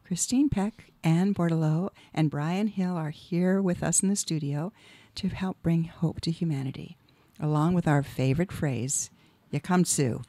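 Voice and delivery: measured, scripted welcome with phrases set apart; formal show introduction. Acted. Host introducing the team to listeners, formal scripted welcome. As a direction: read the opening address with careful emphasis.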